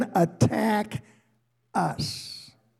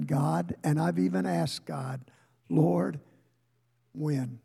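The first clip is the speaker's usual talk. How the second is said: much softer, hushed searching; quiet confession; 3 semitones lower, 6 dB quieter than usual. Acted. Preacher confiding his doubts to the congregation, hushed. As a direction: pull the room in close and low.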